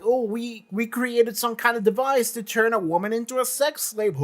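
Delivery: lightly voiced gloating nerd, ending in a cackle; mock the schemers with a silly evil laugh; mock nerd villains. Fan mimics nerds boasting of their device, mockingly gleeful. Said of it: "they go on this thing of".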